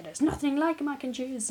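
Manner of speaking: a mock German accent with a laugh in it. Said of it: "was that a German accent?".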